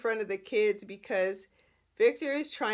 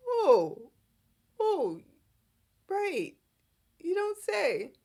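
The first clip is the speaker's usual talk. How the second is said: higher, mock-innocent "oh, right"; Victor playing dumb; 8 semitones higher, slower than usual. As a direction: play dumb, sing-song and high. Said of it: "Nicholas is like, "Um, Dad?".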